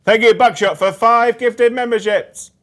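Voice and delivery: high, loud gushing thank-you; excited thanks. Acted. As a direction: announce the gift with big excitement. Thanking a gifted member.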